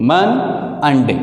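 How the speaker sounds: "मन and डे" broken into two separate beats; teacher separating "मन" from "डे" with a clear gap; split into syllables. Shown as a demonstration. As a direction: say "मन and डे" syllable by syllable, pausing after मन. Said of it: "the one syllable and two syllable".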